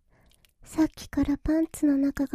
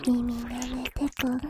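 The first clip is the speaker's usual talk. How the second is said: whispering; 3 semitones lower than usual. Acted.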